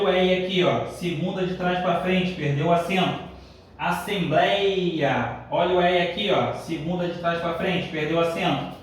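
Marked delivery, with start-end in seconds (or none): 3.8-5.4 1 drawn out. Shown as a demonstration. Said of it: "teacher drawing out example word".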